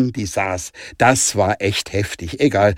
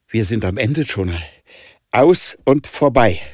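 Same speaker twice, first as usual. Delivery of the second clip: loud hiss; 2 semitones higher, 4 dB louder than usual. Acted. Danica telling Jonah it is over, loud and hissed. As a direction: spit out the end bitterly. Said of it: "zischte Danica laut".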